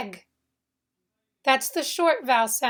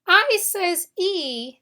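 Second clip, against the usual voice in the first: slow demonstration; 5 semitones higher, slower than usual. Shown as a demonstration. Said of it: "in the word ski".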